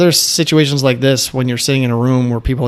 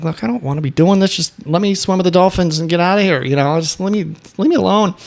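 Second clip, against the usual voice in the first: mildly agitated retelling, fast and rising higher; getting worked up; 6 semitones higher than usual. Retold or imitated. Retelling the timeshare pitch, telling the saleswoman off with mild heat. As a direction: push back, a bit heated and rushed. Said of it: "so now I'm starting to get worked up".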